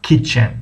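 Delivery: "kitchen" said as a lone model word, KIT-chen; pronunciation demo. Shown as a demonstration. (تلفظ آموزشی «kitchen» با پایان افتان)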